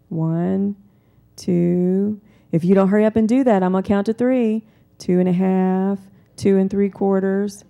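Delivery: loud, fast, exasperated countdown; angry parent counting to three at a child; counting parent yelling. Acted. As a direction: bark the numbers like a losing-patience parent. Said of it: "Or they're yelling".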